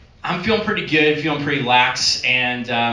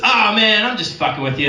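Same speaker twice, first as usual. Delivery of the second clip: mock guard revealing the prank; laughing guard dropping the act; 8 semitones higher than usual. Guard laughs off the fake robbery. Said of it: "he goes".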